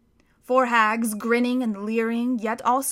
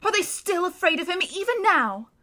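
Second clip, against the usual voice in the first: tearful; 7 semitones higher than usual. Acted. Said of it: "sobbed Susan".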